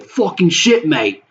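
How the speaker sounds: high-pitched mock-British cursing; British accent. Gamer reenacting his reaction to getting killed, British accent. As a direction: curse in a put-on British accent. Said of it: "you fucking Brit".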